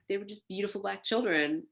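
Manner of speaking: ordinary talk, nothing marked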